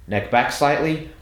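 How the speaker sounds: ordinary talk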